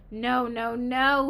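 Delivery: loud, insistent yell, building; exasperated yelling. A narrator's reading. Music teacher to struggling pupil, exasperated yelling. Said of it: "he kept yelling".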